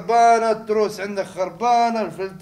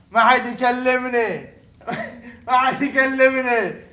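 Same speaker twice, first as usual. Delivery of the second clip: cocky brag; 3 semitones higher, 3 dB louder, slower than usual. Acted. Boasting office tough guy.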